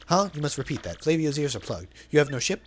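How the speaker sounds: flamboyant merchant voice, lightly put on; theatrical braggart reading; hammed-up Flavio. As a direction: play the vain, dramatic sailor.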